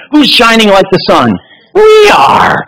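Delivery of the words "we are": shouted answer to the congregation. Real, not acted. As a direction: call it out to the room. Answering his own question to congregation.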